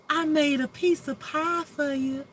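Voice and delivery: a light Southern belle voice, sweet and high; Southern accent. Acted. Host playing a Southern cook offering pie, in a mock Southern voice. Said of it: "I just love that Southern accent".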